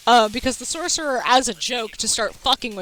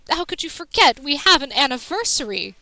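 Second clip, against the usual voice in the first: mock offended; 3 semitones higher than usual. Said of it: "acting offended and being like".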